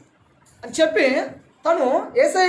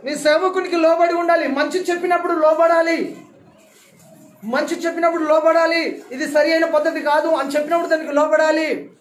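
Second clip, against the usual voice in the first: insistent, slightly raised preaching voice; emphatic preaching; 4 semitones higher than usual. Real, not acted. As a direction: drive each command home to the congregation. Preacher presses the command to obey. (గట్టిగా నొక్కి చెప్పే ప్రసంగ స్వరం)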